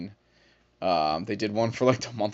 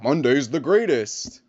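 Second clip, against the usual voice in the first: hammed-up Monday enthusiasm; mock cheerful; 5 semitones higher, 7 dB louder than usual. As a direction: gush about Monday, overdone. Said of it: "I'm like".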